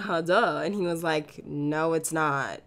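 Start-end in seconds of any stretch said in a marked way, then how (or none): 1.5-2.6 put-on teasing boyfriend. Boyfriend's teasing reply retold.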